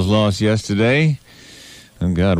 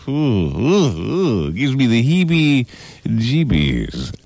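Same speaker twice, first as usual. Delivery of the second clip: shuddering revulsion; slower than usual. Acted. Gives me the heebie-jeebies.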